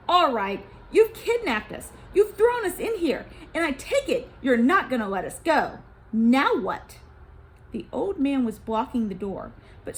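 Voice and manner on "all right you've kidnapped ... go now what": put-on loud, angry challenge from a kidnapped boy. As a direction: confront the captor head-on. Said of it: "Jay spoke first and angrily".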